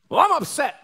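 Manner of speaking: high mocking whine; whiny excuse. Pastor mocking a congregant who blames his emotions. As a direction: mimic a sulky grown-up.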